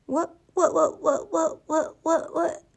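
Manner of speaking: high, squeaky repeated what; guinea pig chuckle. A narrator's reading. Guinea pig exploring the table, high squeaky chuckle. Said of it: "Sammy chuckled as he went".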